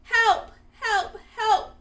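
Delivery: high, loud, frantic help calls; shrill frightened voice calling help; panicked cry for help. A narrator's reading. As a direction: yelp for help in terror. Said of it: "cried the hippo".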